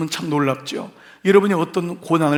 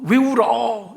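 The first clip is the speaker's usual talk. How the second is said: higher, challenging question; mock chiding; 5 semitones higher, much slower than usual. Preacher shows how not to address someone crying, mock chiding. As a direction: question the tears as if they should stop. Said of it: "이러면 안 된대요".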